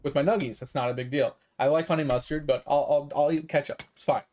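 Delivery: low, unbothered self-quote; easygoing acceptance. Retold or imitated. Customer settling for ketchup with nuggets, casually fine with it. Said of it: "And I was fine with it".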